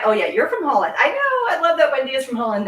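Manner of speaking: light up at a happy discovery; gushing, pitch leaping up; delighted recognition. Real, not acted. Delighted recognition of viewer from Holland.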